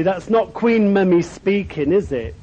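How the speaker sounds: cheeky mock-casual tease; flippant. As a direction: toss it off lightly, half joking at the caller. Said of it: "quite flippantly".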